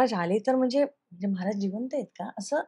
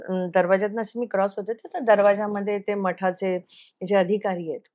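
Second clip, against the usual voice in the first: normal talking voice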